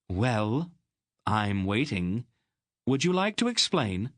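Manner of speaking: high, demanding aunt's voice; stern aunt. Acted. Aunt demanding an explanation from Garion, sternly. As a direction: press him for an answer, sternly.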